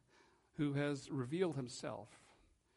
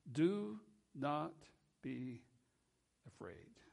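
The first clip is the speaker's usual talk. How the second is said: gentle comfort; slower than usual. Acted. Quoting Christ's gentle comfort.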